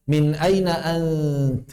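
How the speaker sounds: drawn-out vowel on aina; long drawn aina; stretched. Shown as a demonstration.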